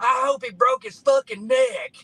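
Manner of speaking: put-on very high, very loud, all-out drunken holler. Retelling a story about a drunk man who stood up, retelling a drunk man's yell. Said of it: "stood up and yelled as loud as he can".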